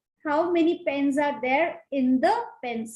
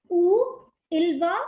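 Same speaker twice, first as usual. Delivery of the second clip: slow model phrase; 3 semitones higher, 4 dB louder, slower than usual. Shown as a demonstration. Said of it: "very important".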